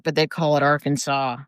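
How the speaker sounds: Arkansas said AR-kan-saw, silent s; the Arkansas way of saying it; local pronunciation. Shown as a demonstration.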